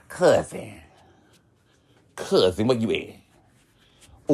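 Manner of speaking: camp drawn-out "Cousin, where you at?"; lightly mocking a boy on the phone; drawn-out impression of the boy calling. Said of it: "on the phone talking about".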